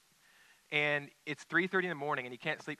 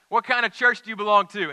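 much higher, louder astonished outburst; Harry, amazed; 7 semitones higher, 12 dB louder than usual. Retold or imitated. Diner owner to Campolo, stunned he's a preacher: loud high exclamation. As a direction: blurt it out in sudden amazement.

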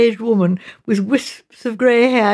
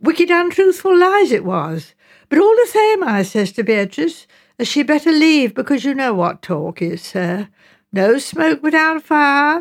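emphatic, indignant mother; 4 semitones higher than usual. Acted. Mrs Baker reports her advice to Beatrice, indignant. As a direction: pronounce it with righteous emphasis.

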